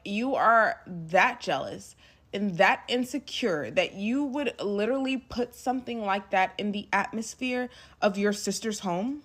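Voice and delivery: mildly heated retold telling-off; going off. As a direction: lay into him with stressed words. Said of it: "I'm literally going off".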